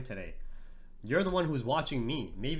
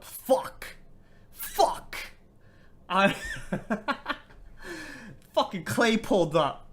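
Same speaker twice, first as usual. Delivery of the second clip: high breathy yelp; excited surprise; 8 semitones higher, slower than usual. Real, not acted. Streamer sees friend Clay join, breathless excited yelps. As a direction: gasp it out in delighted shock. Favourite viewer Clay suddenly joins.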